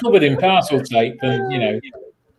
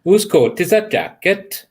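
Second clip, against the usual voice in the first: bouncy mock Welsh; Welsh accent; 3 semitones higher than usual. Trying out a Welsh accent for friends, mock Welsh. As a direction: do a convincing Welsh turn of phrase. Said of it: "that was good".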